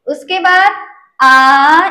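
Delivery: आ stretched out long and slow; long vowel demo. Shown as a demonstration. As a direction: draw out आ to show its two beats. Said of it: "ये द्विमात्रिक होते हैं".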